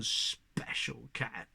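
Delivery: slow, low sneer on special cat; disgusted. Acted. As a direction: drag out special cat with contempt. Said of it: "She sounded disgusted".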